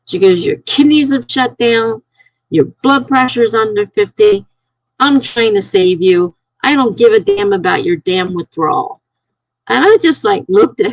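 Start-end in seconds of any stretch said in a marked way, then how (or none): 0.5-9.0 insistent retort starting high, then settling; retold yelling back. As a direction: imitate her scolding without real shouting. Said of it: "she yells back at me".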